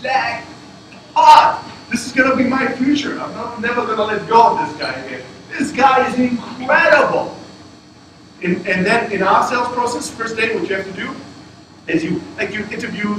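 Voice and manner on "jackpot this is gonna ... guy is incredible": thrilled inner voice, higher and louder; excited. Retold or imitated. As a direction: gush as if you've struck gold. Retells his excitement at candidate.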